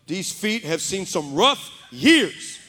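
hammed-up prayer opening, drawn out; mock prayer. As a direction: call out to God in comic dismay. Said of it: "this is how I started my prayer".

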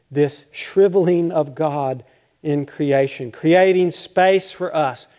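measured, slowed emphasis; slow, emphatic. Acted. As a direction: spell it out slowly for the congregation. Preacher stresses God's withdrawal.

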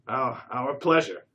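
stammered reply. A narrator's reading.

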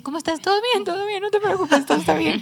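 voz ajena, aguda y tranquilizadora; Jessy. Retold or imitated. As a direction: imitate someone hurriedly reassuring, pitched well up. (imitación aguda de alguien que tranquiliza)

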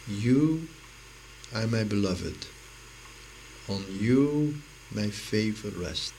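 slow, deliberate, with long pauses; gentle voice of God. Acted. God speaking to the beloved, gentle and unhurried. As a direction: let each phrase sink in, dwelling on "You". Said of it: "that is a soft voice".

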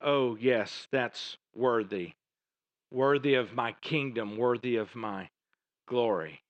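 a hint of a solemn divine voice; voicing God. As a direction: intone it as God giving approval. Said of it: "God would say".

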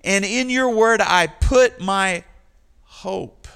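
hope rising in the psalmist's voice; hopeful longing. Acted. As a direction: let the hope climb as you wait on the Lord. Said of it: "He says".

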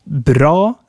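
bra with a long, drawn-out dark 'ah'. Shown as a demonstration. Teacher demonstrating the Swedish long A, long vowel in bra. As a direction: say bra with the vowel held long, far back. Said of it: "has a long A".

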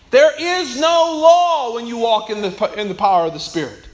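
loud preacher's shout; fiery sermon delivery; preaching. Real, not acted. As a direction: preach it out with force. Preaching at full force.

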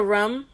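"room" said like "rum"; quoted "room" rhyming with "drum"; regional pronunciation. Retold or imitated. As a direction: imitate someone saying "room" with a short "uh" vowel. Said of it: "I heard somebody say room".

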